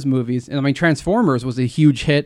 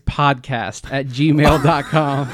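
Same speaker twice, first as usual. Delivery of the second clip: laughing; 2 semitones higher, 3 dB louder than usual. Real, not acted. Correcting the email amid laughter.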